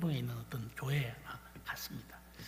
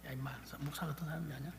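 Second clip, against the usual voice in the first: quieter, faster retold father; 11 dB quieter, faster than usual. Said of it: "저한테 그렇게 말했어요".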